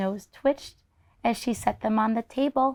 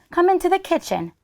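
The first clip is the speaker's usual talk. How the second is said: put-on old woman voice; 9 semitones higher than usual. Baba Brina voiced in story.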